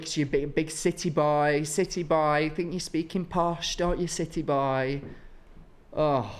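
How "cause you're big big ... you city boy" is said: teasing hometown folk. Retold or imitated. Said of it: "do people go like".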